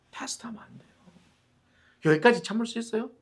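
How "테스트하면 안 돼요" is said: whispered warning not to test God; hushed warning. Acted. Preacher whispering a warning to the congregation. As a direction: drop to a whisper as a caution.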